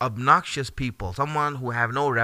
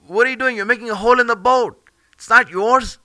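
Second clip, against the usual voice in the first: raised, louder, higher alarmed protest; outraged protest; 7 semitones higher, 6 dB louder than usual. Retold or imitated. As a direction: call out the wrongdoing in shock. Musa protests the hole in the boat.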